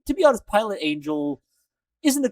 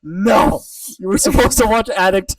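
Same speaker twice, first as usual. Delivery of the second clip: mock scolding; 7 dB louder than usual. Scolding Chris for skipping Addict.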